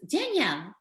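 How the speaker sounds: a hint of thick Cuban mother accent; mock shocked Cuban accent, said with a laugh; thick Cuban Sofia Vergara accent. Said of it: "in her thickest Sofia Vergara accent".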